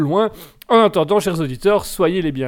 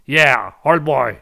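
slow, lower mock British old boy; posh English accent; 5 semitones lower, much slower than usual. Host teasing his co-host on air, lower, slow mock British accent. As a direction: drawl it like a jokey English gent. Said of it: "De mieux en mieux ton anglais".

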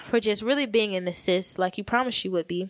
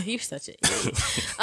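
laughing whisper; 4 dB quieter, slower than usual. Real, not acted. Laughing at husband's joke.

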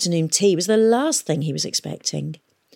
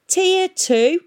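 surprised; 13 semitones higher, 5 dB louder than usual. A narrator's reading. Peavy amazed.

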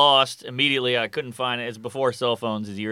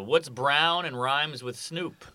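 slow teasing setup with a pregnant pause; slow joke setup; 5 dB quieter, much slower than usual. Acted. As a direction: drag out the riddle, hold the pause. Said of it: "I did enjoy the, uh, the pregnant pause".

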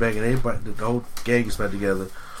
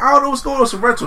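panicked dad voice; 11 semitones higher, 4 dB louder, much faster than usual. Retold or imitated. Dad excuse to cops.

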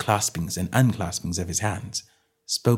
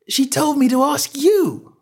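whining plea; 5 dB louder than usual. Acted. Little man pleads.

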